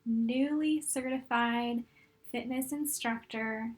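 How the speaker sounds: calm, unhurried meditation guide with long pauses; guided meditation. Real, not acted. Coach guiding fitness instructors to look back on their journey, calm meditation voice. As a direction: guide them gently through it, leaving room to breathe.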